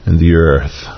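lightly acted, gentle reassurance as God; a touch of tenderness, unhurried and falling; tender assurance. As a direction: reassure gently, letting the pitch settle down. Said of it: "God is assuring him tenderly".

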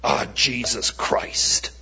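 imitated drawn-out curse of frustration; exasperated oath. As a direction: say it slowly like a mild swear after a fumble. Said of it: "when I've hit my hand or dropped the pass".

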